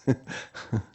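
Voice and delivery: short breathy chuckle; laugh. Real, not acted. Teacher amused at not needing to be brilliant, laughing. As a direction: chuckle briefly at your own remark. Amused at his own remark.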